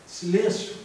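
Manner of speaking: loud, abrupt call for silence; shouted command. Shown as a demonstration. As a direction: call the room to order.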